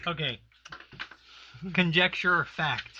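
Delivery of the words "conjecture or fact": segment title, announced loudly; announcer voice. Acted. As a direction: call out the segment name.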